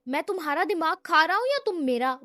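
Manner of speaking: flaring anger. Acted. Brother, angrier still, hurls the question back loudly. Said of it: "وہ اب مزید بھڑک چکا تھا".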